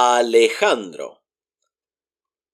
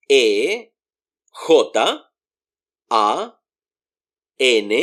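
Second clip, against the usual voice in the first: ordinary delivery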